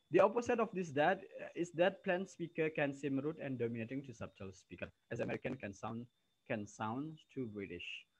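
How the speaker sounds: loud, careful textbook reading; reading aloud. Acted. Teacher reads the English text to her students, loud and careful. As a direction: read the passage out to the whole class.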